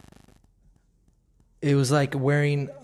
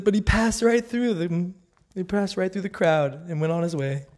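higher, amused and lively; delighted retelling; 4 semitones higher than usual. Shown as a demonstration. Rereading her favourite verse, high and delighted. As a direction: relish it like the best punchline. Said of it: "it says".

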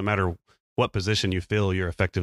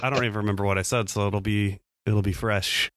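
husky voice from a cold; raspy, getting over a cold; hoarse voice. Real, not acted. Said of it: "a singer's voice today 'cause I'm still getting over a cold".

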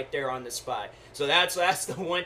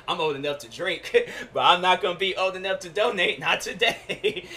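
laughing. Retold or imitated. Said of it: "I'm like".

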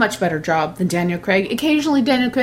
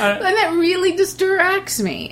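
laughing; 11 semitones higher, slower than usual. Real, not acted. Still laughing about accent slips.

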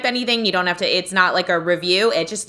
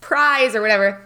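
put-on higher, eager little-kid voice; excited kid; 6 semitones higher than usual. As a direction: gush like a child waiting for the tooth fairy. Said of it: "I always got so excited".

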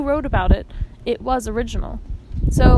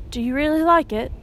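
eager; 4 semitones higher than usual. A narrator's reading. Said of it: "he asked eagerly".

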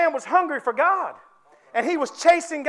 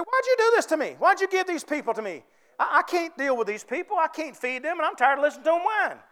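Moses complaining; 3 semitones higher than usual. Acted. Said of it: "He said".

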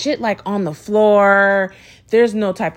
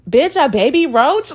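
raised, louder voice of disbelief; incredulous question; 4 semitones higher, 5 dB louder than usual. Retold or imitated. Best friend reacting to the bug video, loudly incredulous. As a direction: throw it out loud as a shocked question. Acting friend's shocked reply.

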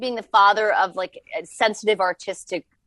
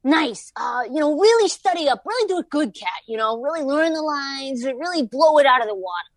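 intense coach dad; 4 semitones higher than usual. Retold or imitated. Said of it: "he'll be like".

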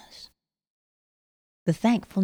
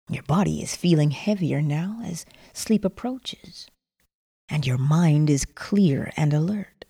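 sleep story narrator. Acted. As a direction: ease them into sleep. Guiding relaxation breathing before sleep.

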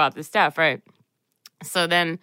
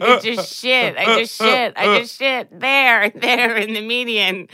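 distressed; 5 semitones higher than usual. Retold or imitated. Retelling her distress to friend.

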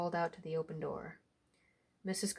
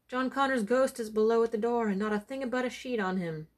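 a bit higher and louder, a mild touch of panic; frightened report; 4 semitones higher, 5 dB louder than usual. Acted. Servant boy warning his master of the ghost, mildly frightened. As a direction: blurt it out to your master, half scared. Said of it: "roared and screeched from terror".

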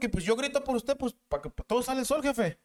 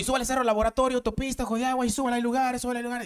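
mock bus caller yell; 4 semitones higher than usual. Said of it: "Y estoy acá desgañotándome".

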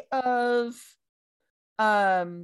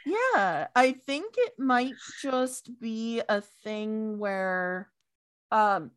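hiccups; 3 semitones higher, slower than usual. Real, not acted. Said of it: "I have the hiccups".

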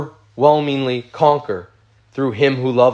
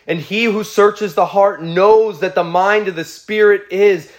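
raised, fervent reading of Romans; preaching scripture reading; 7 semitones higher than usual. Acted. Pastor reading Romans aloud to his congregation, fervent and raised. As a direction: proclaim the passage to the church with rising conviction.

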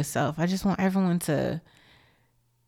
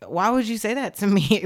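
mock-shocked, higher-pitched question; taken aback; 4 semitones higher, 3 dB louder than usual. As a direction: act out being thrown by a child's comeback. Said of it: "taken away".

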